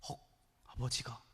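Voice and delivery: acted gasp, then low, soft disbelief; mock shock, voice dropping away; shocked reaction. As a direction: echo it quietly, as if stunned. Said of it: "삼 단 충격을 받아요".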